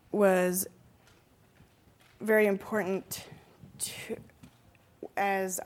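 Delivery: drugged up and drifting, losing the thread; groggy from anesthesia. Real, not acted. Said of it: "I'm kinda drugged up".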